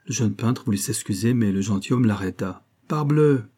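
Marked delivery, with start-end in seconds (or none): 2.9-3.4 higher, amicable exclamation; friendlier tone. A narrator's reading. Gentleman reassuring his late friend, friendlier tone. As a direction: ease off into friendliness. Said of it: "fit-il d'un ton plus amical".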